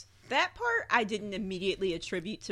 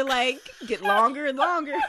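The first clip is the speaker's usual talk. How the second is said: laughing; 6 semitones higher, 3 dB louder than usual. Real, not acted. Teasing about growing harem.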